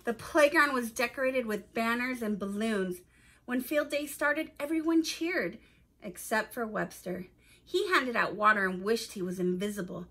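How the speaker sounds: put-on clear, expressive storytelling to young listeners; story narration. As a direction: read it aloud like a picture book for children. Reads a children's story aloud.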